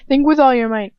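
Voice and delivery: a cruel tormentor pressing his captive; taunting villain. Acted. Same taunt retaken.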